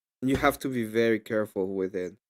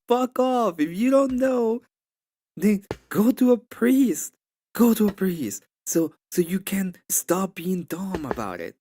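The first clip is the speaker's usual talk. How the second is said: much higher, hammering the point in replayed anger; retold angry rant; 9 semitones higher, 3 dB louder than usual. Replaying his outburst at the questioner to a friend, angry. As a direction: send them off to a priest, exasperated. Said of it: "So I got super angry".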